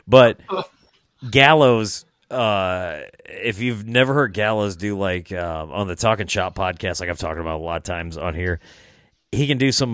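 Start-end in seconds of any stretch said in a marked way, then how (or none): none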